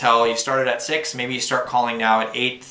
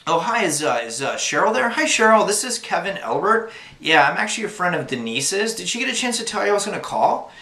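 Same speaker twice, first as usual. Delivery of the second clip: much higher, upbeat phone greeting; raised friendly phone voice; 7 semitones higher than usual. Shown as a demonstration. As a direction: lift your pitch way up to sound harmless. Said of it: "so it'd be sounding something like this".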